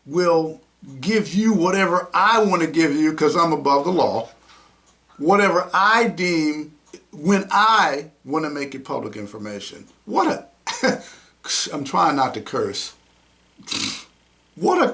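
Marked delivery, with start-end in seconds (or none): 0.1-9.9 1 mock elitist. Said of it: "this elitist attitude".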